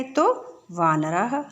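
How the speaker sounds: वानरः said slowly, final visarga audible; slow model answer. Shown as a demonstration. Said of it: "यानी एक वचन है".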